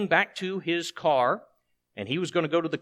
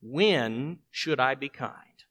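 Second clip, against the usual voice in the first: slow rhetorical question; 3 semitones lower, much slower than usual. Shown as a demonstration. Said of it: "Here's the third point".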